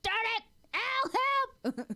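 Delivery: high, loud pretend yelling; high hammed-up shouts; mock shouting. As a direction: yell for help while carried off. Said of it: "You're like".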